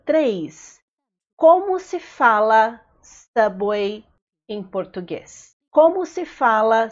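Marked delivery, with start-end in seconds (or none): 1.4-5.5 slow chunked model phrase. Shown as a demonstration. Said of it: "teacher models phrase in chunks".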